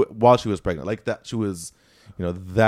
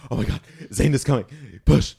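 excited urging; 3 semitones higher, faster than usual. Retold or imitated. All urging the birth on.

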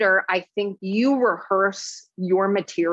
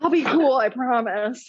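higher-pitched mock pleading; playful begging to behave; pleading promise; 3 semitones higher than usual. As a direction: promise like an over-eager kid. Playacts pleading to be allowed along.

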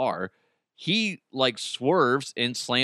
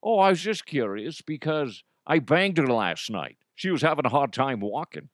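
lightly voiced celebrity impression; a hint of mock Scottish suaveness; Connery. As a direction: boast slyly as an imitation film star. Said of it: "talk about Connery banging Mike's mom".

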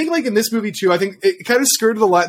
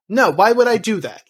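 higher, lightly imitated protest; a touch of acted disbelief; mock exasperation; 4 semitones higher than usual. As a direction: push back with put-on exasperation. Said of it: "in an exasperated manner".

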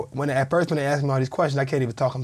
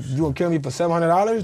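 incredulous plea, pitched higher; retold protest; 4 semitones higher, 3 dB louder than usual. Player retelling his protest to armed robbers, incredulous and higher. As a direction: push the question up in disbelief, retelling it.

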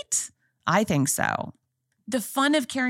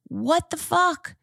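much higher, pitched-up disbelief; exasperated outburst; 10 semitones higher, slower than usual. Real, not acted. Venting to viewers about the show, high exasperation. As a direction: let the outrage spill over. Ranting about Big's death.

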